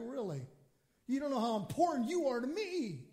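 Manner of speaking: gently incredulous answer, unhurried; God answering. Acted. God replies to a pleading believer, gently incredulous. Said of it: "he's looking at us like".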